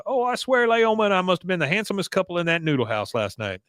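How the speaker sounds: boastful suitor. Retold or imitated. Bill brags at dinner, retold.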